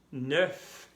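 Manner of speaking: Neuf with a plain final f sound; neuf said alone. Shown as a demonstration. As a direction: say Neuf ending on f. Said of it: "no, neuf heures".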